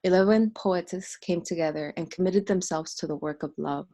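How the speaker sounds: measured, emphatic spoken-word reading; poetic recitation. Acted. Host opening a poets' gathering in solemn spoken-word recitation. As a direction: declaim it in even, weighted phrases.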